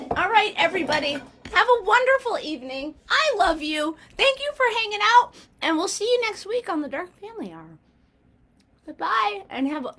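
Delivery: talking with a mouthful; words round a bite of food; mouth full. Real, not acted. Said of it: "sorry, my mouth is full".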